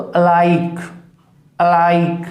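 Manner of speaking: अलाइक with a weak initial अ, weight on लाइक; barely touch the अ of अलाइक and lean on लाइक; unstressed first vowel. Shown as a demonstration. Teacher models अलाइक, first vowel unstressed. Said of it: "इसे unstressed कर दोगे ए को".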